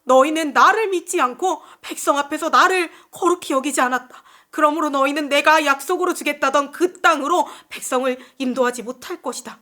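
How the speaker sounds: lightly voiced stern divine verdict; a hint of solemn proclamation; God's pronouncement. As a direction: pass judgment as God, firm and emphatic. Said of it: "하나님 모세에게 이렇게 말씀하세요".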